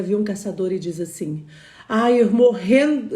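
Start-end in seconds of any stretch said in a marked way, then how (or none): 1.9-3.2 a louder, slower mock cry of fear; panther's scared cry. Frightened panther sees the hunter, cries out in mock fear. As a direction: let the frightened panther cry out, half playful. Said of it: "ela morrendo de medo e diz".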